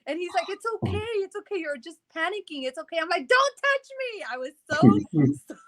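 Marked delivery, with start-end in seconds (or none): 0.5-3.0 retold reassurance. Husband calming his panicking wife, retold reassurance. 3.3-4.2 high-pitched panicky warding-off; retold scared cry. Hurt wife fending off her husband, retold scared cry. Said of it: "I was so scared".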